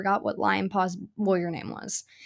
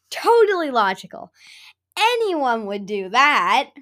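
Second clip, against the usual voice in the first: sarcastic; 5 dB louder than usual. Real, not acted. Sarcasm about murder.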